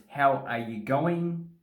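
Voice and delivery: "How are you going" slow and fully separated; spelled-out question. Shown as a demonstration. Explaining the joke on the greeting, slow and deliberate.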